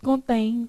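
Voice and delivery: contém with the stress on TÉM; stress on the last syllable. Shown as a demonstration. Teacher mocking students' misreading, contém stressed on TÉM. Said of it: "Só na casa do sexto tá escrito".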